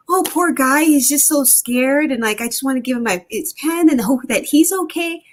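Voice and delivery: mock-sympathetic coo over the boy; old naive me. Woman imitating her younger self pitying a boy, high sweet coo. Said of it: "So the old me was like".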